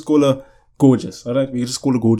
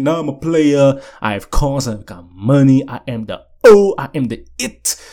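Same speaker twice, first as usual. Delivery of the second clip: boastful brag; 6 dB louder than usual. Retold or imitated. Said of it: "we say".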